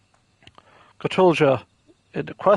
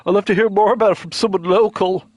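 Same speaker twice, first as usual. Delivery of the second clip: laid-back surfer dude. Acted. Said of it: "I'm just gonna give him the surfer dude voice".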